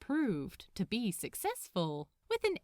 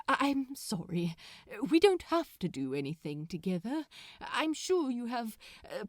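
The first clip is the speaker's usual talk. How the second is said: sheepish; 2 semitones higher than usual. Acted. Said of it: "he asked sheepishly".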